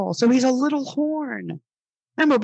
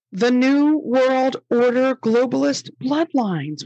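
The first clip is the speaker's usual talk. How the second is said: mocking slow read-along; 3 semitones higher, slower than usual. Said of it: "all together now".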